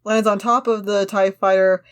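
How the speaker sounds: measured, slightly slow action-line reading; script narration read-aloud. Acted. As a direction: read the scene description steadily to the friend. Reads script action lines.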